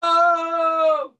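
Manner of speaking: loud high shocked yelp; shocked shout. Real, not acted. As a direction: blurt it out, scandalized. Reacting to crude joke.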